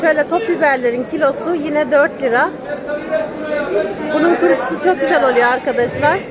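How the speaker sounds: muffled behind a mask; talking through a face mask. Real, not acted. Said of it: "Ağzımda maske var".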